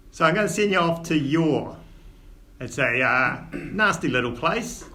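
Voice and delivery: lightly voiced Cockney dwarf dad, scolding but fond; dwarf father in Cockney. Old dwarf father chiding his son, lightly Cockney.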